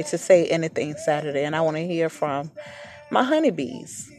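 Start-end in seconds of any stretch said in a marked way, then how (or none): 3.1-4.1 high sing-song. Real, not acted. Sign-off pet name sung high.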